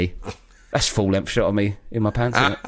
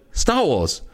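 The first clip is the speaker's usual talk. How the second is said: higher, insistent "Star Wars" with a falling end; annoyed; 5 semitones higher than usual. Retold or imitated. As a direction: imitate a man fed up with repeating himself. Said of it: "Like, annoyed with me".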